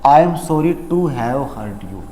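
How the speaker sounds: "I am sorry to have hurt you" said very slowly, falling at the end; teacher modelling the correct apology slowly; slow correct model. Shown as a demonstration. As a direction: model the right answer slowly. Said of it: "option number B".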